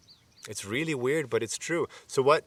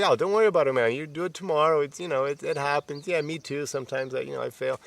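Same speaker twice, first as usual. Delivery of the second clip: friendly reassurance; faster than usual. Retold or imitated. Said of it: "that kind of, like, friendly talk".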